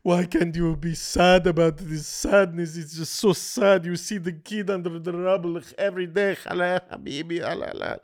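hammed-up mournful Arab voice; mock Arab accent. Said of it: "Arab people who are begging for".

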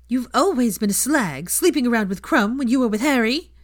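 a jeering letter voice; spiteful howler. Acted. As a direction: spit the accusation at her. Second howler insults her.

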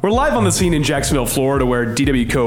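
breaking-news bulletin voice; old radio announcer. Acted. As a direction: read it like a live news flash. Mock news bulletin read.

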